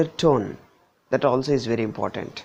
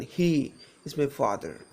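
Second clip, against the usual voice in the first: emphatic "he", the rest falling away; single out "he"; stress on HE; 3 dB quieter than usual. Shown as a demonstration. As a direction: lean on "he", lightly finish "is my father". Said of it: "if I stress on this word".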